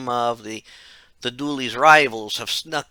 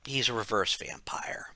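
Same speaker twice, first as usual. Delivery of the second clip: hushed, secretive whisper; 2 semitones lower, 9 dB quieter than usual. Acted. Conspiratorial reveal of villain.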